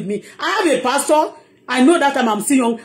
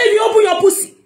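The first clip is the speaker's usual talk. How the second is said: mocking the pastor; 5 semitones higher than usual. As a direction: sneer like a boastful preacher. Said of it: "He said".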